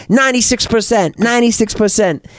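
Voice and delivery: irate Korean-accented cabbie impression. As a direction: put on a Korean accent and vent. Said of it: "I can't do the accent".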